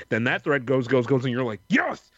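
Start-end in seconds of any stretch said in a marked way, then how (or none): 1.7-2.1 mock triumphant yes. Retells finding a helpful forum post.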